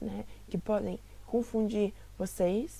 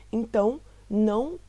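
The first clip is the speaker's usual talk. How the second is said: Então, não pushed out louder; emphatic no; 7 dB louder than usual. Shown as a demonstration. Teacher stresses they are not the same, loud. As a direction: hit não hard. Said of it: "emphatic contrast".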